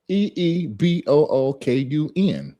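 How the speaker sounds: Ibukun broken into slow separate sounds, E E B O O K U N; sounded out slowly. Shown as a demonstration. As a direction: spell out each sound of Ibukun slowly, one by one. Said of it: "I'm spelling the enunciation".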